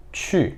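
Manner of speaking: chu said with a puffed ch and a rounded ü; chu, blown ch, lips pouted; Mandarin qù. Shown as a demonstration. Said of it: "se eu juntar o ti com o ü".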